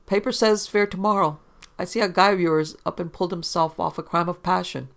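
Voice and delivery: lightly voiced barkeep, needling a customer; a hint of a wisecracking barkeep; chatty bartender. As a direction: make bar small talk with a tease.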